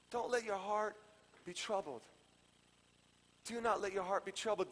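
calm, quiet scripture line; gentle verse. Acted. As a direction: bring it down and comfort them. Verse in original gentler wording.

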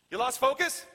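calling out. Acted. Voices Jesus calling to the lost.

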